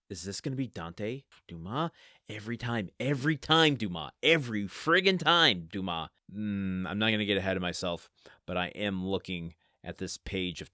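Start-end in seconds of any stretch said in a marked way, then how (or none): 2.3-6.1 playfully scolding the author, building; hammed-up fed-up complaint; mock exasperation. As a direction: punch the repeats louder and higher, drop on the name.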